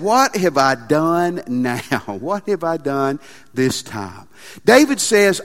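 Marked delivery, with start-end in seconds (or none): 0.0-4.3 whiny complaint. Acted. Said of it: "And David said".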